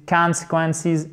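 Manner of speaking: CONSEQUENCES slow, long stressed first syllable; accent et voyelle longue. Shown as a demonstration. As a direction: stretch and stress the CON of CONSEQUENCES. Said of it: "accent tonique ici et voyelle longue". («consequences», «con» long et accentué)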